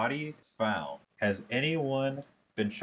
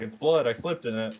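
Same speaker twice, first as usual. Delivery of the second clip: high, louder dopey kobold voice; 4 semitones higher, 3 dB louder than usual. Retold or imitated. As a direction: state the obvious like a clueless rookie. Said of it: "He's like".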